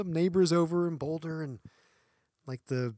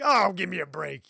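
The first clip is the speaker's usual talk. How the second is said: loud retold scoff; dismissive attitude; 3 semitones higher, 6 dB louder than usual. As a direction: imitate your own exasperated brush-off. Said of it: "this kinda attitude".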